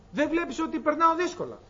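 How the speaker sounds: high, plaintive complaint; complaining woman. Acted. Hagar complaining to God, high and plaintive. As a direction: whine your hardship upward.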